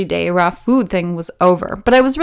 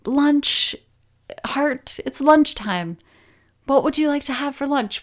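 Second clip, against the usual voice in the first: coaxing heart; 6 semitones higher than usual. Retold or imitated. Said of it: "I was like".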